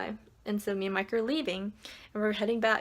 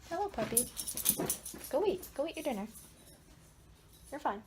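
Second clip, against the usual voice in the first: higher, sing-song voice to a puppy; pet talk; 5 semitones higher, 5 dB quieter than usual. Real, not acted. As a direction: coax the dog to eat. Talking to her dog.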